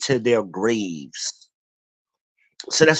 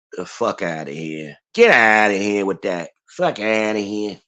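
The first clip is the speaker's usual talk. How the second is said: lightly put-on Italian accent, lower pitched; 4 semitones lower than usual. Streamer jokingly waving off old deacons, mock Italian voice. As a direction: dismiss them in a mock Italian voice. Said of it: "My Italian voice".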